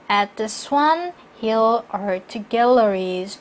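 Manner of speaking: slow, separate words up to "Galleries"; measured phrase, resting after "Galleries"; full pause at end. Shown as a demonstration. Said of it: "두 번 쉬시고요". ("Galleries" 뒤에서 충분히 쉬기)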